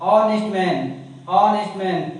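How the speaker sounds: ऑनेस्ट said with an open "o" and no h sound; silent h in honest. Shown as a demonstration. Teacher showing students how ऑनेस्ट is said, with no h. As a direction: say ऑनेस्ट as "onest", never "honest". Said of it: "इसे जब हम पढ़ते हैं हिंदी में तो क्या बोलते हैं".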